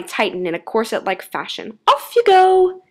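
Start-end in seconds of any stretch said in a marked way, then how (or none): 1.9-2.8 high, loud, hurried exclamation; frantic cry. A narrator's reading. Girl ridding herself of jacket, high frantic cry. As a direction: shout it in a panic.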